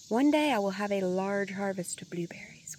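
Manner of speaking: a soft, breathy hope; wistful hush. Real, not acted. Gardener confiding her blueberry dream, hushed and wistful. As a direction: say it like a quiet wish.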